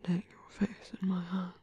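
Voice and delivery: soft breathy whisper close to the ear; tender whisper. Acted. Whispering tenderly to the hero he holds. Intimate whisper to wounded lover.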